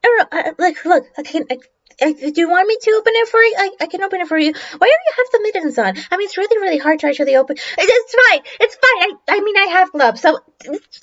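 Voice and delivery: hurried, stumbling offer; lightly rattled, babbling to reassure; mildly flustered helper. Acted. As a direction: rush and restart the phrases awkwardly. Bully awkwardly offers to help.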